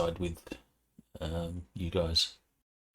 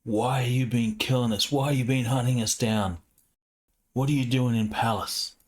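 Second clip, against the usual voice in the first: raised-pitch angry demand; mock yell; 5 semitones higher than usual. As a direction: yell it accusingly, without full volume. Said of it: "he starts yelling".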